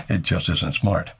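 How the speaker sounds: chuckling "It just isn't smart"; a self-mocking, chuckled warning; rueful laugh. Shown as a demonstration. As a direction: laugh at yourself and say it slowly. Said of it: "I know that because I've done it".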